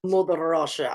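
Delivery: low mock Russian accent. Host joking along about Mother Russia, Russian accent. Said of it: "have a Russian accent".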